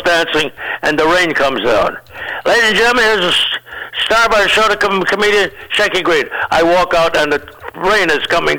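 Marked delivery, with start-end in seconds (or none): 2.4-6.3 mock emcee intro. Emcee announcing the star comedian to the crowd, raised announcer voice.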